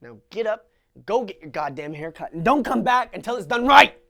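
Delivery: harsh order. Acted. Father ordering his son back to the barber, harsh. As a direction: bark the command at him.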